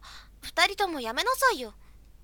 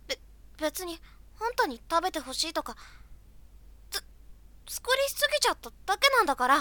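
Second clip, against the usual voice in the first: tsundere; 3 dB quieter, faster than usual. Acted. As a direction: blurt the excuse fast, flustered. Flustered tsundere excuse.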